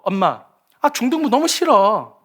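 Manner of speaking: lightly acted kid whining to mom; griping preteen, mildly put on; whining child complaint. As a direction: drag out the complaint like a sulky child.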